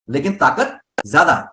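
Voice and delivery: ordinary delivery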